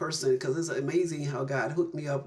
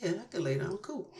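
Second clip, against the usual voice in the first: amazed relief; 5 semitones higher, 6 dB quieter than usual. Retold or imitated.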